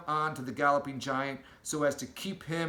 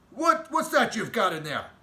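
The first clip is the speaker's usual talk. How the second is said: louder, higher pushy demand; 7 semitones higher, 7 dB louder than usual. Acted. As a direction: bark the question at the giant. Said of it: "demanded to know".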